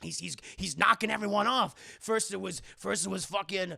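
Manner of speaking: stammering frightened gangster; acted rising alarm; panicked gangster. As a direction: blurt it in mock panic, building.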